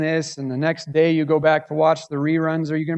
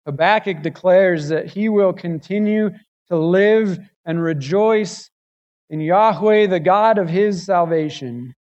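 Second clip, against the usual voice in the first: preaching swell; 3 semitones higher, 5 dB louder than usual. Acted.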